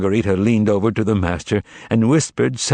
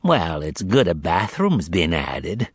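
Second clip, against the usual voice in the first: slow, lower approving tone; approvingly; 3 semitones lower, slower than usual. Acted. Demon approving the bathroom, mock approval. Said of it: "said Azazello approvingly".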